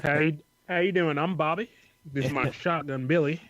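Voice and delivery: lightly played country ranger; white boy ranger. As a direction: introduce yourself as a folksy ranger. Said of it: "pretty accurate for fucking white boy ranger".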